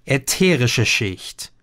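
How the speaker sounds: slowly repeating a strange term; slow careful repeat. Acted. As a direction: sound out the new words one by one. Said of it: "Korrekt wiederholt". (langsam und bedächtig nachgesprochen)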